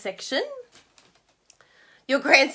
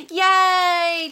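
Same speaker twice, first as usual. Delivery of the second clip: excited cheer; 6 semitones higher, 8 dB louder than usual. Real, not acted. Cheering over order.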